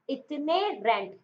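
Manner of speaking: "इतने रेंट" drawn out slowly in two words; split as two words. Shown as a demonstration. Teacher repeating the memory trick, "इतने रेंट" slow and split. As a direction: stretch "इतने", then say "रेंट". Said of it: "आप इसे पढ़ो इतने रेंट".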